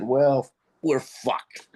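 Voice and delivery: slow resigned whisper; defeated whisper. Retold or imitated. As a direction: breathe it out, beaten. Retelling his reaction to the lost shot.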